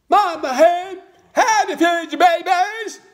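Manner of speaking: high, loud, squeaky frog voice, stretched out slowly; eager little frog. Acted. New frog mother asking mama hen for advice, squeaky high frog voice. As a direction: pipe it up high like a tiny frog. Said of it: "and said".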